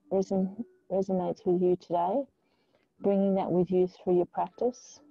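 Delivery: calm, measured yoga-teacher guidance with long pauses; unhurried meditation voice; guided meditation. Real, not acted. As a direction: ease them into stillness, leaving space between phrases. Leads a grounding meditation.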